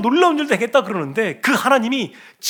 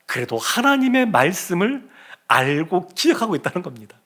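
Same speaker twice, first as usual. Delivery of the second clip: ordinary talk, nothing marked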